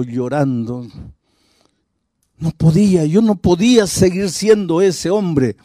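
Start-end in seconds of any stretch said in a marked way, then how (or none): 2.4-5.6 un ruego angustiado, algo más agudo; desesperación actuada. Retold or imitated. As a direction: imita a un hombre que ya no puede más. Hombre relata su crisis gritando. (desesperado, sin llegar al grito)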